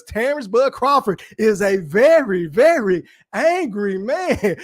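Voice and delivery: very slow, deliberate drawn-out delivery; slow TV quote. Retold or imitated. Streamer quoting Martin about Crawford, slow mock gravity. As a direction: stretch it out like a famous sitcom line. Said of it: "Y'all remember that shit on Martin?".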